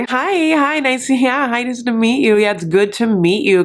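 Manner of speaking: high-pitched polite greeting with a touch of frost; icy politeness. Retold or imitated. Two women greeting over FaceTime, mock icy politeness. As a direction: put on a strained-nice, mildly icy hello. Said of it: "it's a little, like, icy".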